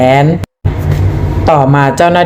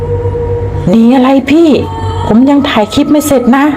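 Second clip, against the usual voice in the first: put-on high, slow, stretched yell of a scared teen; panicked shouting boy; 10 semitones higher, much slower than usual. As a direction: call out to the brother over the engine. Boy yelling on speeding motorbike. (เสียงเด็กหนุ่มตะโกนลั่นอย่างตกใจ)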